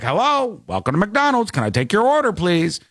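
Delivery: high chirpy drive-through greeting; parrot-like greeter. Retold or imitated. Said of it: "sounds like a parrot".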